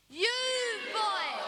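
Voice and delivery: put-on loud practice shout of You boy. Shown as a demonstration. Leading the audience in a loud You boy. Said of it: "shout as loud as you can".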